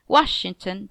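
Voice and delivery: "Washington" with weight on Wash-; strong first, two light syllables in "Washington"; dactylic stress. Shown as a demonstration. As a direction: say "Washington" as WASH-ing-ton.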